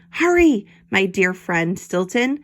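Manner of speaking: lightly voiced urgent detective; urgent call. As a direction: hurry him along. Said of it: "called Hercule".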